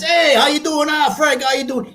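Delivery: high-pitched call over the fence; hearty neighbor greeting. Retold or imitated. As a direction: imitate a friendly neighbor hailing someone. Acting neighbour greeting across the fence.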